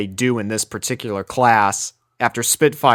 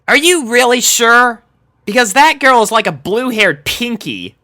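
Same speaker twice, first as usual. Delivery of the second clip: lightly voiced brash tomboy, higher; a hint of brash Dash teasing; 11 semitones higher, 6 dB louder than usual. A narrator's reading. Dash teasing Sunset about Pinky, lightly voiced brash tomboy. Dash's voice in the story.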